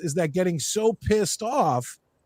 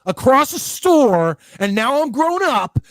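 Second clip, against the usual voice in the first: mock vengeful kid; 5 semitones higher, 4 dB louder than usual. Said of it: "He was like".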